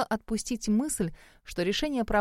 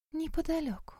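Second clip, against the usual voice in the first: cold and clipped, higher and much softer; 8 semitones higher, 8 dB quieter than usual. A narrator's reading. Melanie coldly answering her friend about the monastery, cold and soft. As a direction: let it fall coolly, almost detached. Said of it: "холодно ответила Мелани".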